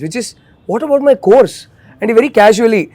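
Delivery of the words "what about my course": higher-pitched imitated panic; retold panic. Girl panicking about her course, mock panic. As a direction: voice her sudden worry, pitched up. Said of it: "suddenly the next panic happens".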